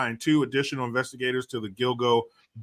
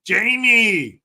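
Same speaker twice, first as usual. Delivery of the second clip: excited shout; 10 semitones higher, 9 dB louder than usual. Real, not acted. Greeting a super chat donor.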